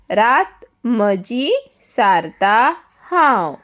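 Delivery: measured poem reading, lilting word endings; poem recitation. Shown as a demonstration. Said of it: "आतां पयलीं हांव ताचें वाचन करतलें".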